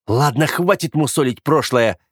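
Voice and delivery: a mild barked order. Acted. Brother barking to end the argument, mildly. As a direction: cut the topic off sharply. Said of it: "рявкнул Оливер".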